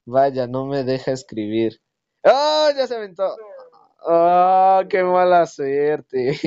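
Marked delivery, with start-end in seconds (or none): 2.2-6.4 high cry then slow groan; dismayed shout. Real, not acted. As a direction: react loudly in dismay. Dismay at game event.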